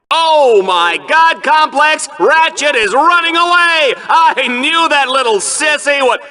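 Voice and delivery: gleeful outburst. Acted. Announcer thinks contestant flees.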